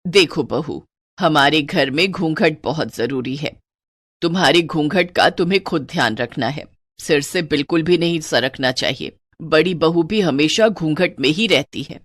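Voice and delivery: lightly voiced traditional mother-in-law; strict mother-in-law. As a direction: lay down the house rule firmly. Voices old-fashioned mother-in-law.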